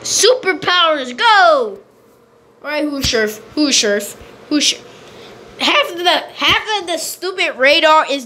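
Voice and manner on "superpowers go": superhero call. Pretend. Calls out activating game power.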